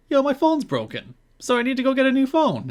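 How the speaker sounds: high, put-on ditzy voice; a cohost mocks a wrestler's ditzy skit voice; mocking Goldilocks. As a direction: parody her as a clueless airhead. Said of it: "and she's like".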